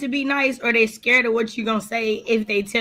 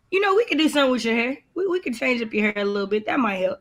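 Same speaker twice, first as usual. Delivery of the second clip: gentle grandma; 4 dB quieter than usual. Retold or imitated. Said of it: "my grandma would be like".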